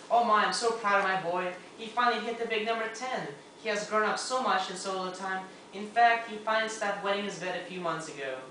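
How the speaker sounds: lightly voiced mother giving a birthday speech; a hint of a gushing mom; proud mom's speech. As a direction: play a proud mom addressing the party. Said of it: "his mom stood up to make an announcement".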